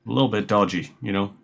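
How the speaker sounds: usual speaking voice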